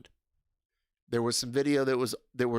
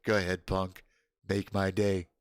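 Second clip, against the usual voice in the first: lower, steady tough-guy line; tough-guy movie quote; 4 semitones lower than usual. Pretend. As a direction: dare him coolly, like a movie cop.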